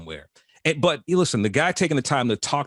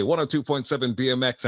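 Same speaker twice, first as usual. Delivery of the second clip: radio DJ voice; 2 semitones higher than usual. Shown as a demonstration. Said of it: "it sounds like the radio".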